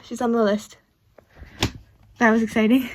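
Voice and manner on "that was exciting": excited and loud. Real, not acted. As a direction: burst out with real thrill. Thrilled by the plot.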